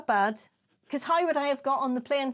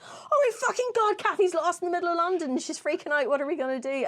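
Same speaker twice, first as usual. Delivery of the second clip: imitated panic; 7 semitones higher than usual. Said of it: "He was like".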